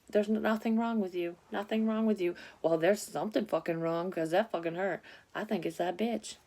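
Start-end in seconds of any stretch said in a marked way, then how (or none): 0.1-2.3 higher, dismissive doctor voice; mocking the doctors. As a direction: mimic the brush-off, pitched up. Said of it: "every motherfucking time I go".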